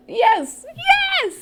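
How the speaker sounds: high, loud yes yes; excited cheer. Real, not acted. Recapping a kiss, she cheers excitedly. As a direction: cheer them on like a fan. Cheering a couple getting together.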